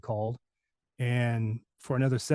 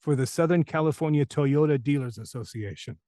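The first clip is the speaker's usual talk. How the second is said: lightly voiced actor, weighing each word; imitating Ed Grover. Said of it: "he said".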